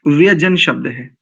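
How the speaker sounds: व्यजन said without the nasal, वे-जन; व्यजन, no न sound before ज; व्यजन with a plain unnasalised first syllable; correct pronunciation. Shown as a demonstration. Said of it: "व्यंजन नहीं है".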